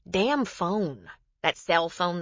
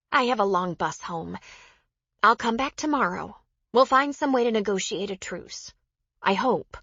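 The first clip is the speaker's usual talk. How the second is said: a lightly voiced, higher-pitched woman offering peace; higher character voice, tentatively making an offer; Joe, conciliatory; 4 semitones higher, 4 dB louder than usual. Narrator voices Joe in dialogue.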